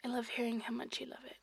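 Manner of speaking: breathy, close-up murmur; intimate whisper. Acted. Lover speaking right in a partner's ear, intimate whisper.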